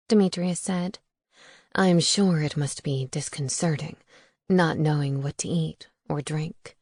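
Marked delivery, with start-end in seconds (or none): 1.7-6.8 a hint of a smooth vampire gentleman, lower; lightly lowered, courteous vampire voice; lightly voiced suave vampire. Demetrius shows empathy.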